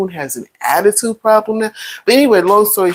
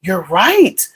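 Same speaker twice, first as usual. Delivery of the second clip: mock apology; 4 semitones higher than usual. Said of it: "Nobody's gonna be like".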